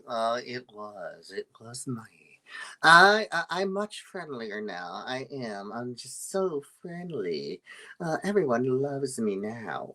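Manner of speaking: lightly voiced puppet, slow and drawn out; friendly odd puppet. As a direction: play a sheepish puppet, stretching the words. Ventriloquist voices puppet Norbert.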